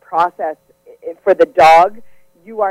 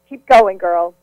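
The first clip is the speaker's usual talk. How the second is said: cheering; slower than usual. Acted. Cheering on caller.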